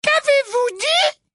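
very high, slow prim voice; slow, pointed as if hard of hearing; high slow simpering query; Umbridge feigning deafness. A narrator's reading. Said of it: "la main derrière l'oreille".

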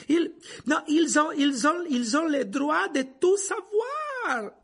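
high, loud, halting gasps from struggle; panting. A narrator's reading. Lupin restrains Black with all his strength, panting. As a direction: pant it out, restarting as you strain. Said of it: "haleta Lupin qui retenait Black".

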